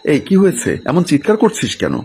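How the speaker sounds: high, startled asking what happened; alarmed question. A narrator's reading. Mother rushing out to her shouting son, alarmed and high. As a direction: rush in alarmed and demanding.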